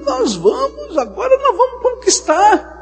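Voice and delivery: very high, loud, with a laugh; eager defiant crowd. Acted. The people, too late, insisting they will conquer now. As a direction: blurt it out in reckless excitement.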